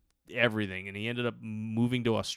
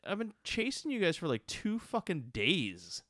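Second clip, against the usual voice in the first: exasperated; 5 semitones higher than usual. Retold or imitated. Retold exasperation at his friends.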